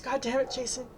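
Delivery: distraught sobbing shout; shouting through sobs. A narrator's reading. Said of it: "shouts through sobs".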